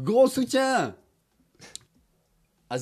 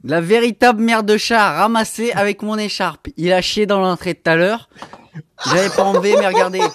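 laughing; 2 semitones higher, 4 dB louder than usual. Real, not acted. Disgusted loud laughing rant.

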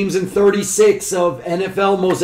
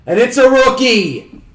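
excited; 5 semitones higher than usual. Real, not acted. Pulling a rookie card.

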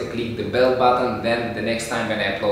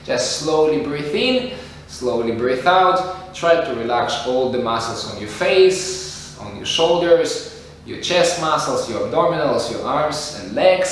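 slow soothing guidance; calm and slow. Shown as a demonstration. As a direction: talk them into relaxing, slowly. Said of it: "perfect way how to do relaxation breathing".

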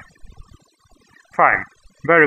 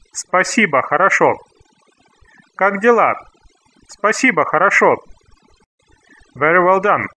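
ordinary talk

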